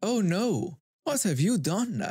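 high mock-surprised yell; fake surprise. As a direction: act shocked, hamming it up. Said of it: "in my most fake surprised voice I yell".

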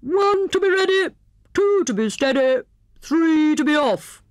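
high, excited countdown in Hare's voice; cried out. A narrator's reading. Hare counts off his friends for the launch, cried out. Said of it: "he cried".

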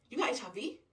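mild acted shock, rising; shocked question. Friend hearing the diagnosis, taken aback. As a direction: pitch jumps up in disbelief.

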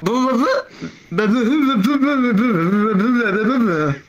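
mock babbling, syllables tumbling out in a run; Helen Keller. Storyteller mimicking a woman in the joke, mock babble. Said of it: "Helen Keller is like".

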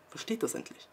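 hushed urgent whisper. Real, not acted. Vlogger urging viewers to finally understand, whispering. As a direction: breathe it out as an insistent secret.

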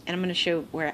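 normal talking voice

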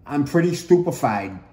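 talking while chewing gum; words around a wad of gum. Real, not acted. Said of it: "I'm chewing gum".

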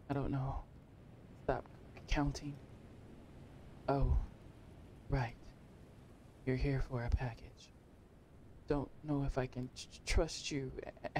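hesitant, halting resident voice; hushed, mistrustful mumble with broken phrases; wary resident. Acted. Distrustful resident putting off the courier, halting and hushed.

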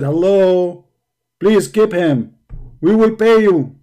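mock desperate dad on the phone; pleading father. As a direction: beg the mafia to keep him. Father begging mafia on phone.

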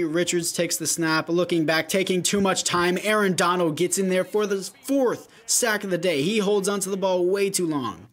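lively sports commentary; play-by-play. Acted. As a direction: call the game live. Live play-by-play of his game.

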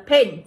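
"paint" pronounced as an English word; model pronunciation. Shown as a demonstration. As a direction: say "paint" as a teacher's reading model. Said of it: "chúng ta sẽ được đọc là". (phát âm mẫu từ "paint")

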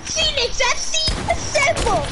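slow, mock-heroic summons; heroic rally call. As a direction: call the team together like a hero. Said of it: "Callum's gonna be at the event like".

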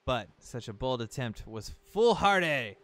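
lightly hammed-up storybook guardian; solemn talking boat. Talking boat warns Link about Ganon, mildly solemn. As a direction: read it as a grave warning, lightly acted. Reads the boat's lines aloud.

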